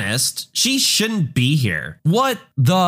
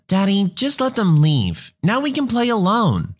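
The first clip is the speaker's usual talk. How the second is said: put-on calm, higher little-girl voice; 6 semitones higher than usual. Daughter asks her dad to let the bullies leave, calm and higher. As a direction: settle her dad down gently. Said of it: "my daughter in a calm voice".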